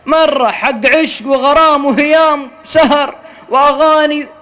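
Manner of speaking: ordinary delivery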